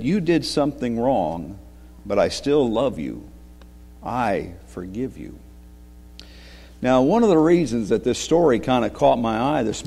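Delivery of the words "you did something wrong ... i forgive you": gentle father. Acted. Father comforts son in story.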